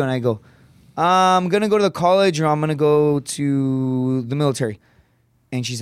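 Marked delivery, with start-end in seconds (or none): 1.0-4.8 higher start, slowing as he searches; improvising teen answer. Retold or imitated. Teenage son answering his mom's challenge, improvising. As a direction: stretch it out while making up a plan.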